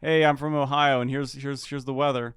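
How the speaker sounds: mock Ohio newscaster; light Ohio accent, newsy and upbeat. Playing an Ohio weatherman in an Ohio accent. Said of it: "you have a perfect Ohio accent".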